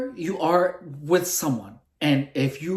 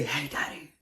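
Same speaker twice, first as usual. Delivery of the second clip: soft secret whisper; 3 semitones lower, 11 dB quieter than usual. Shown as a demonstration. Vlogger demonstrating the whisper trick, whispered. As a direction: say it under your breath. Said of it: "then you do the whisper".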